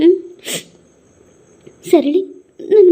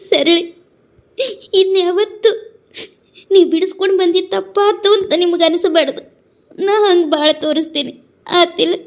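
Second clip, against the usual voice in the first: tearful plea. Acted. Premi begging Sarali for forgiveness, crying. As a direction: beg forgiveness while weeping. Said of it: "ಇನ್ಯಾಕ್ ಅಳಾಕತ್ತಿ?".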